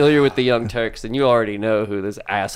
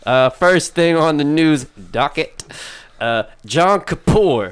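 news anchor. Pretend. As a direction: announce it like a TV anchor. Mock news anchor opening.

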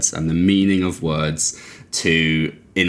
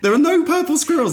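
incredulous, much higher in pitch; exasperated; 3 dB louder than usual. Real, not acted. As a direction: insist on it in exasperation. Arguing over purple squirrel metaphor.

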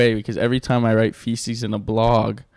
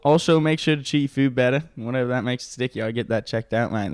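Australian accent. Shown as a demonstration. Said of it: "in an Australian accent".

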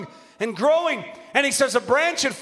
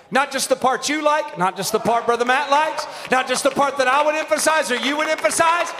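preaching; 3 semitones higher than usual. Real, not acted. Preacher insisting on all of the Word, building preaching. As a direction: build the list, then stretch the last phrase.

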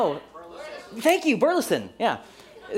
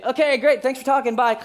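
brisk, higher, breezy goodbye; hasty sign-off; 4 semitones higher, 4 dB louder than usual. Acted. Bluffing listener ending a mystery call, hasty sign-off. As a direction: wrap up the call before being found out. Bluffing a quick cheerful hang-up.

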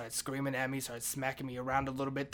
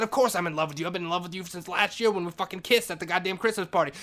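high, loud exasperated declaration; impassioned confession; 5 semitones higher, 8 dB louder than usual. Retold or imitated. Janitor confessing love to Maria, impassioned shouting. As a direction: insist on it at a shout.

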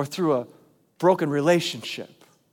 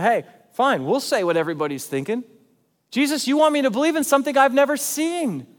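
pleading outburst, higher and louder; a voiced doubter pleading with Jesus, higher and louder; frustrated plea to Jesus; 8 semitones higher, 4 dB louder than usual. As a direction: cry out your doubt to Jesus, straining. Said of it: "being like Thomas a little bit and going".

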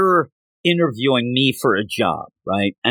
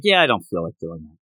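reluctant Angel Devil; 9 semitones lower, faster than usual. Retold or imitated. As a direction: imitate an unwilling devil, low and offhand. Acted quote of unwilling Angel Devil.

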